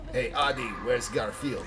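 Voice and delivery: mock French accent; heavy French accent. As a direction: imitate a teasing French friend. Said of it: "she did have a heavy French accent".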